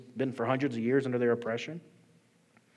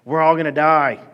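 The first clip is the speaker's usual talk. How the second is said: hammed-up panicked yell, much louder and higher; panicked shout; 5 semitones higher, 14 dB louder than usual. Pastor voicing the Israelites yelling at Moses, panicked shout. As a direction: shout it like the whole crowd is doomed. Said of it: "And they're like".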